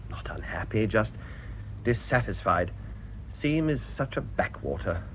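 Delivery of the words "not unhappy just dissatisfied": breathy near-whisper after a sigh; whispered admission. Acted. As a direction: let it slip out under the breath. Sighing vicar admits discontent.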